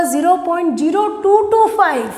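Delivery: "ज़ीरो पॉइंट ज़ीरो टू टू फ़ाइव" with each digit said separately. Shown as a demonstration. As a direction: read "टू टू फ़ाइव" as single digits. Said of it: "इसका pronunciation क्या होगा". ("टू टू फ़ाइव" हर अंक अलग बोलें)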